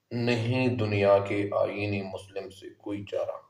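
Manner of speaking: measured Urdu couplet reading; verse recitation. Acted. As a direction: recite the couplet with deliberate pauses. Reads the verse aloud.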